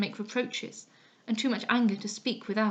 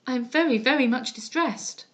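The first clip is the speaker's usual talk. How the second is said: distressed. Acted. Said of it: "cried I".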